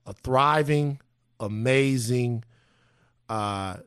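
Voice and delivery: hushed, measured reverence; solemn remembrance. Real, not acted. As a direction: weigh each phrase as a sober tribute. Solemn holiday remembrance of indigenous people.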